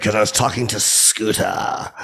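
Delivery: lightly put-on, a bit slow, as Scooter; Scooter impression. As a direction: play the Scooter voice back to the teacher. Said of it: "I used to do the impression".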